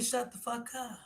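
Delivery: hushed snap. Retold or imitated. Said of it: "told Kenya".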